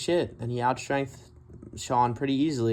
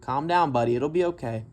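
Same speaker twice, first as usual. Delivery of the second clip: imitating the ref; 3 semitones higher than usual. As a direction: talk him down like a ref. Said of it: "the ref had to tell him to".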